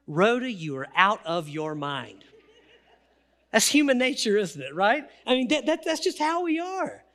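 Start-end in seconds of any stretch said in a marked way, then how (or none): 0.1-2.2 scoffing disbelief. Acted. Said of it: "what do they say to her".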